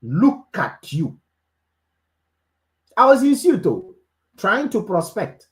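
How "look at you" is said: a hint of a rude woman snapping; retold shout. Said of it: "She shouted at me".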